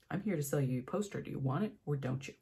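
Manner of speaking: fast, curt and fed up; unfiltered attitude. Retold or imitated. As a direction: push it at him like an ultimatum. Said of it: "giving him full unfiltered bitch".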